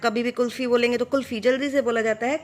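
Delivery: कुल्फ़ी said fast with a short कु; quick demo. Shown as a demonstration. Teacher showing children the short vowel, quick कुल्फ़ी. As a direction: rattle it off quickly. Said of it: "छोटे जल्दी से बोलेंगे आप".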